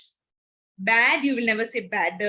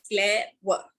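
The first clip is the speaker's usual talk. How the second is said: "Clever" broken in two, "cle", pause, "ver"; split into syllables; 3 semitones lower than usual. Shown as a demonstration. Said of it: "Second one is ending with E R".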